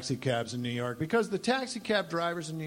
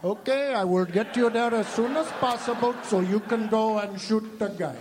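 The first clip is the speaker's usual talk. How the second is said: unfazed cab driver; 5 semitones higher, 3 dB louder than usual. Retold or imitated. Unfazed cabbie answering.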